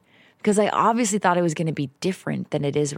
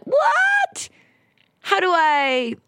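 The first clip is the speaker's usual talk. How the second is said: squeaky high startled outburst; shocked what; 14 semitones higher, 3 dB louder, much slower than usual. Retold or imitated. Alone in the woods, she blurts out shocked disbelief.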